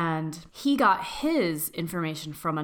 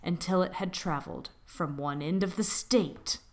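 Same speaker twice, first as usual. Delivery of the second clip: spooky story narration. Acted. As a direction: draw listeners in with a creepy tale.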